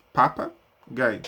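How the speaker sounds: papagaio drawn out slowly, syllables joined back up; slowly blended. Shown as a demonstration. Teacher showing the child how to join the sounds, slow blend. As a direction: glide slowly through papagaio as one word. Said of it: "ela junte papagaio".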